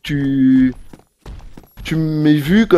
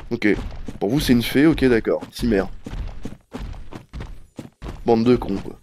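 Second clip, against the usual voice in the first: low, soft, cold and dismissive; cold quiet anger; 4 semitones lower, 6 dB quieter than usual. Shown as a demonstration. Showing Nekmao how he talks when truly angry. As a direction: hold the anger back, clipped low. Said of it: "J'aurais parlé comme ça".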